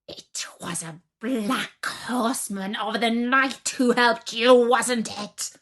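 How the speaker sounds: put-on a witch hissing, then rounding on the girl; suspicious witch. Baba Yaga accuses Vasilisa.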